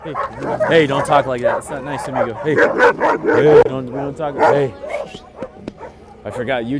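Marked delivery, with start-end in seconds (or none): 0.0-4.7 higher, louder firm telling-off; louder, higher scolding of barking dogs. Real, not acted. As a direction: stop the dogs squabbling, firmly.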